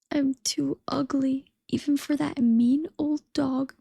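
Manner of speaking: a touch of sorrow, slowed on the first words; sorrowful. Acted. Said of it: "in a sorrowful voice".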